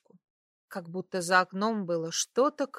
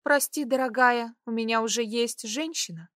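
bitter mock quote; 3 semitones higher, 3 dB louder than usual. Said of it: "с горечью усмехнулась я".

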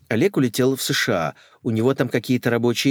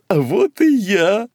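high, louder, slow entrance; grand announcement; 10 semitones higher, 6 dB louder, slower than usual. Acted. Lady sails in announcing herself, high and grand. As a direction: announce your arrival. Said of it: "возвестила Мака".

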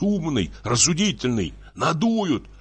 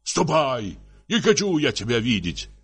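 heated, higher-pitched tirade; angry threats; 4 semitones higher than usual. Acted. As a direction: threaten her as a jealous husband. Husband threatens wife in acted quarrel.

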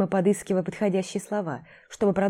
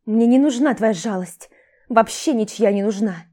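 sobbing; 4 semitones higher, 5 dB louder than usual. Acted. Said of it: "Всхлипнула и сильнее задрожала".

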